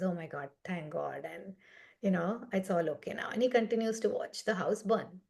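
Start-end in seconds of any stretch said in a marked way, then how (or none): 0.0-3.3 soft, low retold relief; relieved. Father hearing the sale will go through, quietly relieved. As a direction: quietly let the worry go, lightly acted. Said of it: "this man heaves a sigh of relief".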